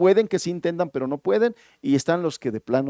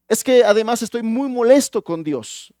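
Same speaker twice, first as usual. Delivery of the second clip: higher and louder, upset with God; angry complaint; 6 semitones higher, 6 dB louder than usual. Acted. Angry man telling the pastor he is upset with God. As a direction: let the grievance burst out. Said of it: "se siente el hombre muy enojado".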